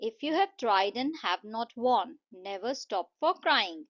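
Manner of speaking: slow, deliberate verse reading; poem recitation. Shown as a demonstration. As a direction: read out the verse slowly, word by word. Reads poem lines before explaining. (धीरे-धीरे कविता पाठ)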